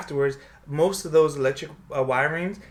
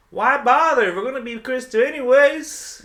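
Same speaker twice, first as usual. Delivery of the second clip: imitating her dad; 9 semitones higher, 7 dB louder than usual. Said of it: "And he says".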